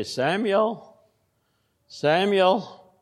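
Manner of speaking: high, drawn-out call of a name; calling voice of God. Acted. The Lord calling young Samuel at night, high drawn-out call. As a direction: call the boy's name from afar.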